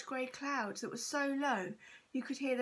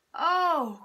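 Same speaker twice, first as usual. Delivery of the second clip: delighted loud Oh, pitched up; a happy cry, high and loud; cried out; 5 semitones higher, 11 dB louder than usual. A narrator's reading. Mum cries out in delight at the shopkeeper, loud and high. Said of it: "cried out Mum".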